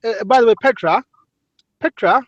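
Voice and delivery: lightly posh Englishman inviting her to tea; put-on English accent. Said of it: "that is a good English accent".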